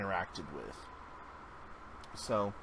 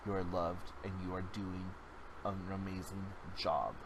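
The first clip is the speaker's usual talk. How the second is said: soft reassurance fading quieter and lower; comforting; 3 semitones lower, 4 dB quieter than usual. Retold or imitated. Comforting a crying woman at Walmart, softly. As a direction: ease her hurt gently, words dropping away. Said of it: "I'm like".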